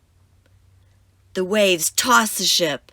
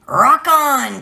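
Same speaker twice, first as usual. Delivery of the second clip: excited cheer; 7 semitones higher, 7 dB louder than usual. Acted. Captain cheering.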